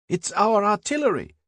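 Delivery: high, ringing cry of relief; joyful shout. A narrator's reading. A soldier in the cellar hailing their guns, shouting. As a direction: yell it out as the shells land. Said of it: "Then someone shouted".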